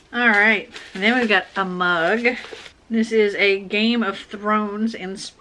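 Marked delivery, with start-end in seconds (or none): 2.9-5.3 hiccuping mid-sentence; words broken by hiccups. Real, not acted. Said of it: "Sorry, I've got the hiccups".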